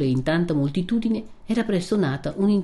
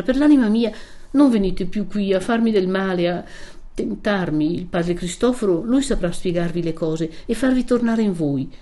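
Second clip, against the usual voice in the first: earnest, tearful-edged plea; Lucia, imploring; 3 semitones higher than usual. Acted. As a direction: beg him for heaven's sake. Lucia begs Renzo to leave. (Lucia implorante)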